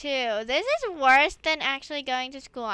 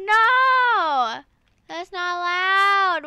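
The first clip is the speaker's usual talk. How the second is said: loud, higher indignant cry; mock protest; 3 semitones higher, 8 dB louder, much slower than usual. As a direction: object like a wronged kid. Outrage at the calculator.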